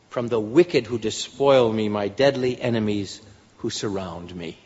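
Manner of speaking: measured King James reading; scripture reading. Acted. Preacher reading Psalm aloud, measured and reverent. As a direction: read it like old scripture, steady.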